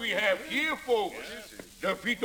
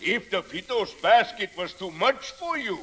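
laughing auctioneer. Acted. Auctioneer selling the teacher's box.

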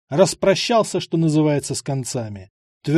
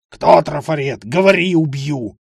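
furious interrogation; 6 dB louder than usual. Acted. Разъярённый участковый допрашивает.

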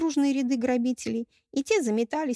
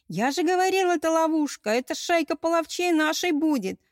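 panicked robber; 8 semitones higher, 7 dB louder than usual. Acted. Robber panicking during rout.

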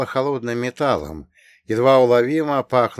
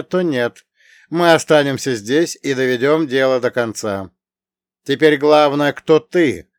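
firm, raised commanding voice; stern commander voice; 3 semitones higher, 5 dB louder than usual. Acted. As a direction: speak like a resolute commander. Voiced character addressing aliens.

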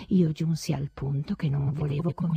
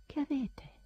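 anxious exclamation; 10 semitones higher, 13 dB quieter than usual. A narrator's reading. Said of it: "esclamava affaccendandosi".

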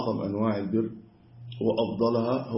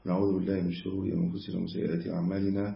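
even, measured monotone recital; formal opening recitation; 4 dB quieter than usual. Acted. Lecturer opening a hadith lesson, formal recitation. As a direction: recite the set opening formula in a steady flow.

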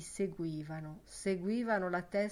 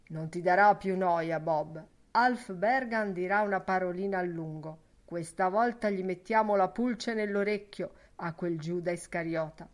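louder, hearty reassurance; lightly voiced Ben Dollard; 4 dB louder than usual. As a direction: promise him it's handled.

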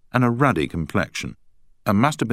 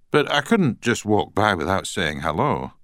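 put-on Scottish accent; 4 semitones higher than usual. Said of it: "in a strong Scottish accent".

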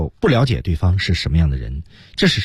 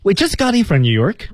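high, bright enthusiastic greeting; warm and open; 11 semitones higher than usual. Shown as a demonstration. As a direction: sound thrilled to meet them. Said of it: "一定要声情并茂". (热情开放的问候)

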